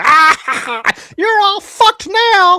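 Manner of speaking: belly laugh through the words, very high and loud. Describing a tiny winged individual pointing at them, with a hardcore gut laugh. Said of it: "a hardcore bottom of the gut laugh".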